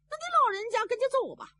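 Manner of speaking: timid shopkeeper. A narrator's reading. Timid shopkeeper shooing Zhao Bi.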